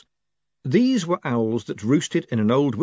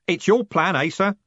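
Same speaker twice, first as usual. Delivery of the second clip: higher, louder rough coachman; 9 semitones higher, 3 dB louder than usual. A narrator's reading. Jim answering Moist, a lightly voiced coachman. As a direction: play the cheery driver.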